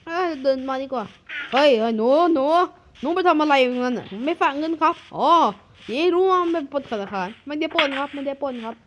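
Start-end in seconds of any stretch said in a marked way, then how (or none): 1.5-4.1 put-on louder call to the kid; hey you, over there. Adult spots a kid by the bank and calls out loudly.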